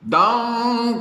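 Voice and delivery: called out like a ringing clock; clock dong. A narrator's reading. The clock calls the hour, ringing dong. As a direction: ring it out as the clock. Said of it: "called the clock".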